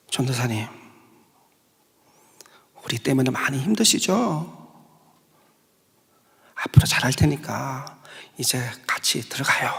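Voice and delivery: low, soft, close whisper.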